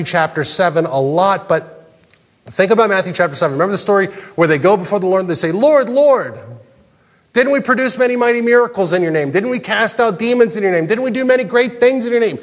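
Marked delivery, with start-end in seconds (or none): 5.5-12.4 pleading. Acted. Rejected followers pleading before the Lord.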